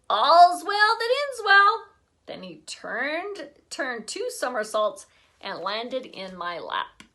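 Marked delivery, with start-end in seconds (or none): 0.1-1.9 put-on high, slow, loud childish echo; little boy voice. A narrator's reading. Fudge echoing Sheila, high slow little-boy voice. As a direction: say it like a proud little kid. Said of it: "said Fudge".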